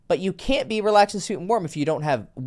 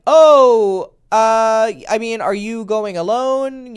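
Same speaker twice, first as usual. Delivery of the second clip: mock hesitant girl; 5 semitones higher, 6 dB louder, much slower than usual. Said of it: "she's like".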